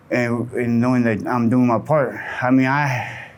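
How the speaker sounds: shallow breathing between phrases; talking while winded. Real, not acted. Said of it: "I'm sorry I'm out of breath".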